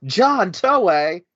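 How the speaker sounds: retold exclamation. Imitates reaction to studio raid.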